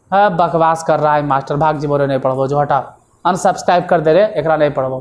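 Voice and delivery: low, grumbling dismissive student voice; a hint of a rude student muttering in dialect; mock fed-up student. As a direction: play a sulky student quitting the class. Voices annoyed student quitting class.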